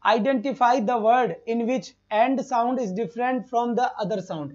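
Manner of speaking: slow, deliberate reading of the exam question. Shown as a demonstration. Teacher reads exam question aloud to students, very slowly. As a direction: spell out each word of the question slowly.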